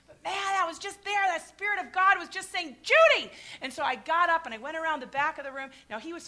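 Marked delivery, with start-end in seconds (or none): 2.8-3.3 sudden high loud call of her name; a voice calling from inside. Retold or imitated.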